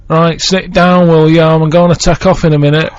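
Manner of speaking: lightly voiced blunt pilot. Imagined pilot addressing passengers before take-off, lightly acted blunt announcement. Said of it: "the pilot comes on and he's like".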